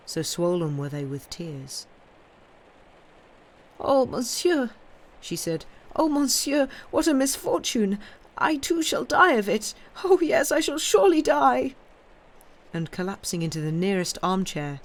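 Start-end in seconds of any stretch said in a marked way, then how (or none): 3.8-4.7 put-on high, loud lament of an old woman; wailing old woman. A narrator's reading. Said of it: "she dissolved into tears". 5.9-11.7 high and loud, rising into despair; wailing old woman. A narrator's reading. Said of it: "she dissolved into tears".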